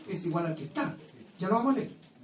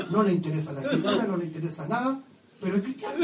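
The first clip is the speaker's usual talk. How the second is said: laughing; faster than usual. Real, not acted. Mocking shallow converts.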